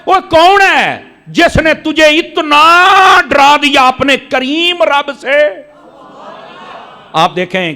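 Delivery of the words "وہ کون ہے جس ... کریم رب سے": divine plea. Retold or imitated. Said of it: "اللہ فرماتا ہے".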